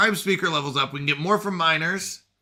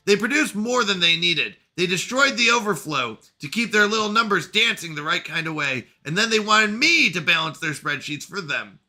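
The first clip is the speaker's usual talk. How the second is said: lightly voiced bitter machine intelligence; a sardonic computer voice, slightly raised; AI character voice; 5 semitones higher, 5 dB louder than usual.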